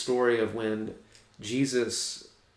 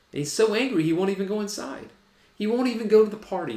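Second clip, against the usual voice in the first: higher, louder, faster preaching build; rising preaching heat; 10 semitones higher, 4 dB louder, faster than usual. Real, not acted. Preacher builds on brother's anger.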